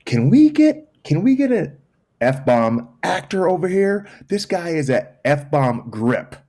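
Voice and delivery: high, loud mock yell that slows down; retold scream. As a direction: imitate an actor yelling across the set. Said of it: "he stops and he screams".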